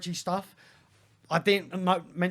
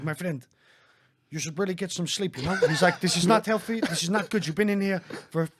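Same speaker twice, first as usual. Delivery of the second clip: put-on Dutch accent. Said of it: "This accent, by the way, is on it".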